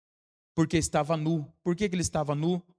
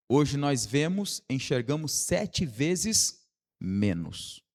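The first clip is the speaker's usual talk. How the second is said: slow, deliberate teaching delivery; measured preaching with drawn-out key words; very slowly; slower than usual. Shown as a demonstration. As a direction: spell it out slowly for the congregation. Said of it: "vou falar bem devagar".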